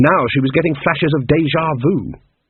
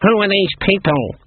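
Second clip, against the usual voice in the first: put-on stern old witch; 7 semitones higher than usual. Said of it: "she said".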